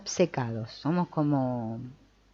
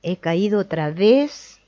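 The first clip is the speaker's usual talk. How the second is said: mock guilty lament. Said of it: "Encima me siento culpable después".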